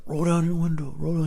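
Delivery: high-pitched imitation of another driver; put-on stranger's voice. Driver asking him to open the window, high mimicking voice. Voicing stranger in next car.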